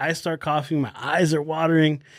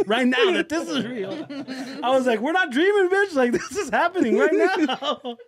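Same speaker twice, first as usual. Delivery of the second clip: high, laughing through the words; cracking up while insisting this is real; laughing disbelief; 10 semitones higher than usual. Retold or imitated. To his stoned friend, laughing in high disbelief.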